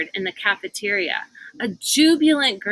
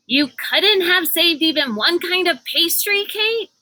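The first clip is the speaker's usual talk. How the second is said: put-on higher, louder complaining girl; Constance whining; 9 semitones higher, 4 dB louder than usual. A narrator's reading. Constance complains to Kate about no pastry, whiny. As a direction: grumble about the missing pastry. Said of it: "asked Constance".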